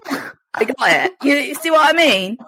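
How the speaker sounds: high-pitched, put-on Essex voice; Essex accent. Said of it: "I could totally be from Essex".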